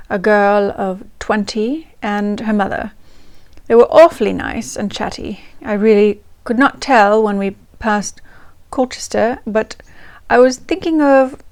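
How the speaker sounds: reading the diary aloud in a light, put-on English accent. Reading Vivian's 1928 diary to viewers in an English accent. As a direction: channel the Queen, in an amateur English accent. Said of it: "We try it in an English accent".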